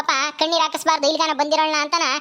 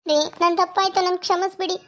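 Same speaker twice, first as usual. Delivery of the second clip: apologetic wife; 3 semitones higher than usual. Acted. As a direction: plead for a husband's forgiveness. Acts wife begging husband's forgiveness. (ಕ್ಷಮೆ ಕೇಳುವ ಹೆಂಡತಿಯ ಧ್ವನಿ)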